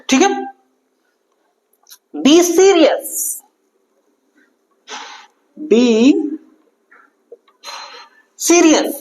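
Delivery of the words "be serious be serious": high, slow, drawn-out command; slow stern be serious. Shown as a demonstration. Teacher tells the class to settle down, slow and stern. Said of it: "serious हो जाओ".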